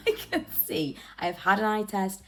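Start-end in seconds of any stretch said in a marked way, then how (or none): 0.0-1.0 laughing while insisting. Real, not acted. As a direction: giggle through the words, amused. Laughing insistence after eye remark.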